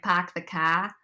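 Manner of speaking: half-hearted Boston accent, dropping the R's. Shown as a demonstration. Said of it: "kinda like a Boston accent".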